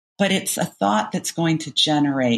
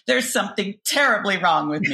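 dramatic; 5 semitones higher than usual. Shown as a demonstration. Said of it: "when I was feeling particularly dramatic".

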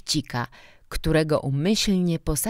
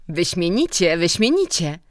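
louder, emphatic praise; loud approval; 3 semitones higher, 5 dB louder than usual. A narrator's reading. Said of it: "rzekł głośno dyrektor". (głośna pochwała)

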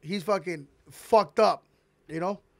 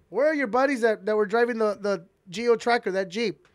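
higher, louder stern cop demanding answers; angry trooper; 4 semitones higher, 5 dB louder than usual. Retold or imitated. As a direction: scold him like a mad trooper. Trooper questioning him.

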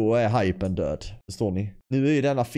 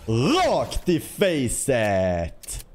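dramatic catchphrase; much slower than usual. Acted. Slow dramatic catchphrase after kill.

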